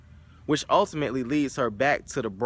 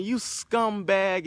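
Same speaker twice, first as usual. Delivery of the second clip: mock yell; 5 semitones higher, much slower than usual. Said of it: "leaving the old guy yelling".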